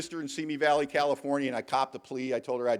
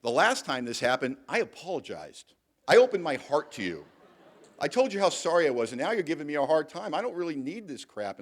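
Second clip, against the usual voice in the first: retold indignation, louder in the middle; indignant confrontation; 3 semitones higher, 4 dB louder than usual. To brother-in-law Larry over the car, retold indignant outburst. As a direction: mildly act out getting in his face. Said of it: "I got right in his face".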